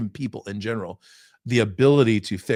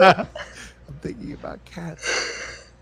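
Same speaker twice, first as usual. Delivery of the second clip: slow, higher, breathy laughing echo; laughing mock; 8 semitones higher, much slower than usual. Host laughing while repeating Debbie's line to his co-host. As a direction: repeat it through helpless laughter. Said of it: "mocking Debbie's line".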